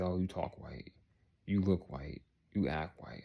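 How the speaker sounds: soft, dropping quote that ends in a whisper; quoting friends mockingly. Friends teasing him about acting white, quietly mocked. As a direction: let the taunt sink to a hushed whisper.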